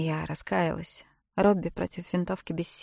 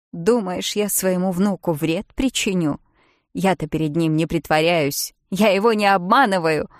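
louder, rising indignation; angry defence; 7 dB louder than usual. Acted. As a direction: defend herself angrily. Bridget angrily defends herself. (возмущённо, всё громче)

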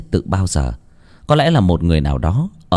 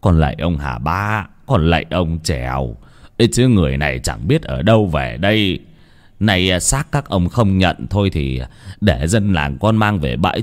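murmured prayer; 2 semitones lower than usual. Acted. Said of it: "chắp tay ra sông mà khấn".

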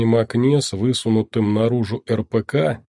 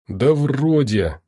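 hoarse; slower than usual. Acted. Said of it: "прохрипел я".

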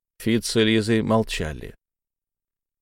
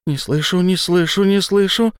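rising frantic repetition; climbing from moan to scream; loud and higher with each repeat; panic building; 8 semitones higher, 4 dB louder than usual. Acted.

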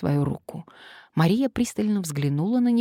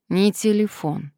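dismissive; 4 semitones higher, 3 dB louder than usual. Acted. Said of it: "отмахнулась Мария недовольно".

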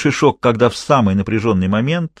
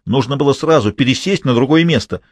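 angry yelling; 4 semitones higher than usual. Acted. Jealous man yelling at his mistress over the old man, furious. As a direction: accuse her for all to hear. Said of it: "орал Автандил".

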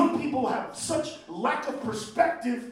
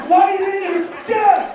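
slower, louder and higher yell; shouted advice; 7 semitones higher, 8 dB louder, much slower than usual. Acted. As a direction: bellow it even harder. Yelling advice at president.

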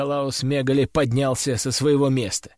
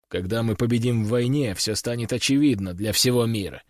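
firm king; 3 semitones lower than usual. Acted. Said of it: "твёрдым тоном заявил король".

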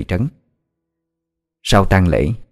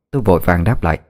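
ordinary delivery

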